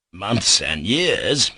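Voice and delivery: slow, lightly surprised echo of the doctor; mild exclamation. Acted. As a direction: repeat it in gentle disbelief. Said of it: "he would exclaim".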